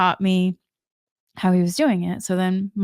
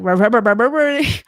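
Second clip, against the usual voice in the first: playful burbling noise; 4 dB louder than usual. Retold or imitated. Playful burble mocking the moment.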